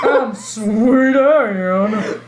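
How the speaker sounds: slow, laughing campy diva voice; drawn-out drag queen. Pretend. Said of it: "looks like a drag queen".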